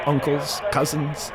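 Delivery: normal talking voice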